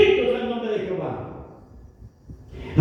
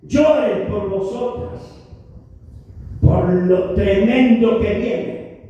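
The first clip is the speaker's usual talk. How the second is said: solemn Jesus; 4 semitones lower, slower than usual. Retold or imitated. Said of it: "Jesús le dijo".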